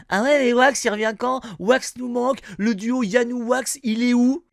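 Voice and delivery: imitating pestering commenters. Viewers asking about his missing duo partner, mock pestering. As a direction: pester like impatient fans in the comments. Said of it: "des questions dans les commentaires du genre".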